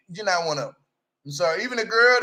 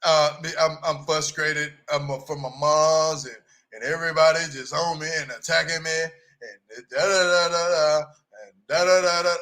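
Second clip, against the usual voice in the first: mock crying; 4 semitones lower than usual. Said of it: "you sound like you're crying".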